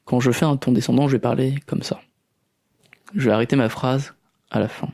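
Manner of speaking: "fin" drops down at the close; falling tone. Shown as a demonstration. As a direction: let each sentence fall and stop at the end. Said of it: "je vais faire maintenant un ton descendant".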